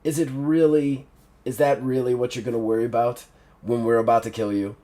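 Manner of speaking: quiet, weary sigh of a voice, quick on the long line; a tired killer, barely bothered; weary Big Ned. Acted. Big Ned scolding the frightened doctor, weary and quiet. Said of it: "Big Ned just sighs and goes".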